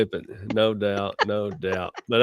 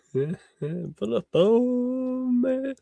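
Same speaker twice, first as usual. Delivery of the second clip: laughing; 12 semitones higher, 3 dB quieter, much slower than usual. Real, not acted. Laughing repeat of the quote.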